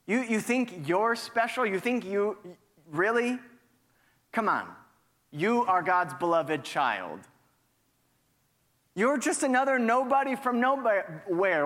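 lightly voiced sneering doubter; a touch of scornful accusation; taunting accuser. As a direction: needle the listener with mock disbelief. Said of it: "that old accusing voice creeps back in".

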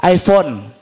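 low, slow show-off answer; mock boasting. Passenger telling seatmate about his phone, boastful. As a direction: spell it out slowly with mild pride. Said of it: "jadi sombong gitu loh".

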